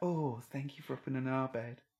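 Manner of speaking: hushed, put-on, seductive sexy voice. Urging the other speaker to redo a line, imitating their sexy voice. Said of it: "That was your sexy voice".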